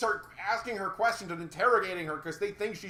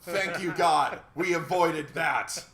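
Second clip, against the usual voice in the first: mock gratitude; 5 dB louder, slower than usual. Real, not acted. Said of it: "sarcastic thanks".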